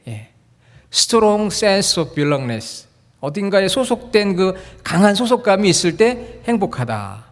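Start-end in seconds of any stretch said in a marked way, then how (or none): 0.9-2.9 each English word stretched very slowly. Real, not acted. Pastor to congregation, teaching the English term very slowly.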